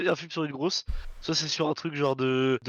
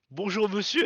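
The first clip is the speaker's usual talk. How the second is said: imitation de l'actrice; 5 semitones higher, slower than usual. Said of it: "Le texte, c'était".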